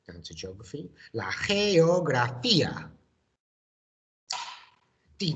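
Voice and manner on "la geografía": La geografía called out louder and higher; model pronunciation. Shown as a demonstration. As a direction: say La geografía clearly for the class to repeat. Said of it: "It goes like this".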